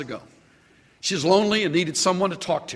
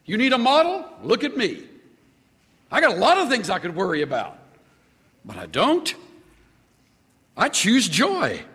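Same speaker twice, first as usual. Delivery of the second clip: voicing Paul; 5 semitones higher than usual. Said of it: "He's just saying".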